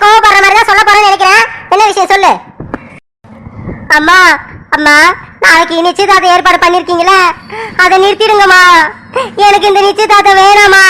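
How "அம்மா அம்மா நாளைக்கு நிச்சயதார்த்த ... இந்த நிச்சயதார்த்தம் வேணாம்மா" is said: 1 tearful plea. Acted. Daughter pleads, crying sound.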